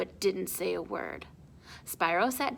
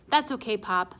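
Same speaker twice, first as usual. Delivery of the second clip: casual voice. Acted. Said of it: "with my most casual voice".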